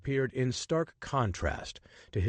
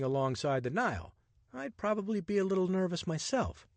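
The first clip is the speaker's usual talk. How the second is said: lightly voiced charming rogue, higher and playful; cheeky adventurer; 6 semitones higher than usual. Richard flirting with the woman on the Nile train, playful and cocky. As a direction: tease her with easy confidence.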